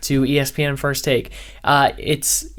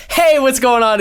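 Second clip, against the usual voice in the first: perky radio DJ; 7 semitones higher than usual. Retold or imitated. Mocking his old demos, perky radio DJ intro. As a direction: bounce into the mic like a cheesy DJ. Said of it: "because you wanna be perky".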